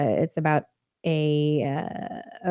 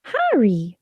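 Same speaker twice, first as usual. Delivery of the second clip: ordinary talk, nothing marked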